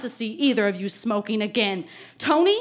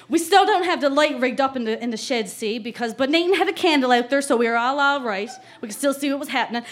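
put-on light Newfie accent reading a diary; Newfoundland accent. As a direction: lean lightly into a Newfoundland small-town accent. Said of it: "I really have to put on the accent".

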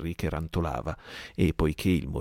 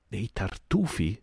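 slow, higher incredulous cry; shrill outburst; 4 semitones higher, slower than usual. Acted. Merry throws Silver's taunt back, shrill cry. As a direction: spit the word back at him. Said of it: "strillò Mary".

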